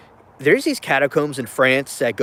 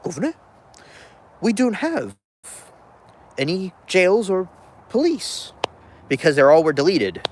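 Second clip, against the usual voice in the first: British officer; 6 semitones higher than usual. Retold or imitated. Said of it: "he said".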